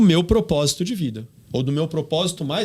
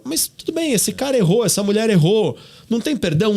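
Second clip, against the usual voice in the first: mock plea; 7 semitones higher than usual. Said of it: "Aí você fala".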